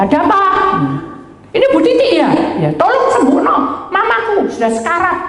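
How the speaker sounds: put-on high, loud urgent child; child begging the pastor to heal mama, high; child's voice. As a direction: sound like a frightened kid on the phone. Child's voice on phone.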